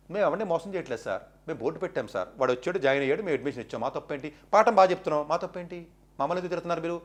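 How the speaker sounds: quietly protesting your innocence as the owner; mock owner's plea. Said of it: "అని మీరు అనొచ్చు".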